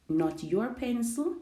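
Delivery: "your" picked out, pitch lifted on the phrase; contrastive stress. Shown as a demonstration. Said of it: "placing the focus or the emphasis".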